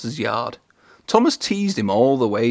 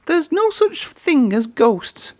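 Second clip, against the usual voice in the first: snapped; slower than usual. A narrator's reading. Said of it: "snapped Percy".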